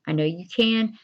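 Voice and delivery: whisper. Shown as a demonstration. Teacher encouraging, whispered.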